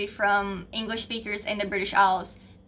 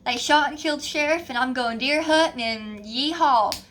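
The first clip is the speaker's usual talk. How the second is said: put-on stereotyped Southern accent; 2 semitones higher than usual. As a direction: play the Southern stereotype, stretching the final word. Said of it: "they usually think of us saying".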